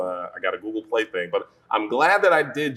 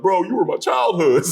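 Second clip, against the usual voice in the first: high-pitched, mock-earnest fan voice; lively retold gush; 10 semitones higher, 4 dB louder than usual. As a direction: imitate an excited fan, pitched up. Acting out fans' excited messages.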